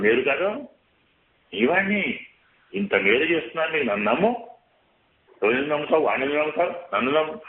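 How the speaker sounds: lightly acted seductive mind voice; voice of the tempting mind. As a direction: sweet-talk like the scheming mind luring a soul. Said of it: "ఇవన్నీ మనస్సు మాటలే".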